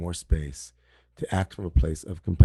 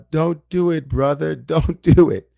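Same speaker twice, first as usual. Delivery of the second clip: higher, louder pleading yell; mock shout; 8 semitones higher, 8 dB louder than usual. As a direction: yell at the screen to stop him. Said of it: "screaming through, right, the Zoom room".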